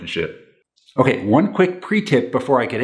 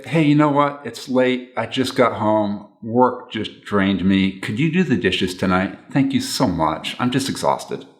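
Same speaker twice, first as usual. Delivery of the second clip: slower, tired and gentle request; polite, soft, gentle; slower than usual. Shown as a demonstration. Spouse asking partner to do dishes, soft and gentle. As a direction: ask kindly, sounding drained from work. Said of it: "in a very polite, warm, soft, gentle way".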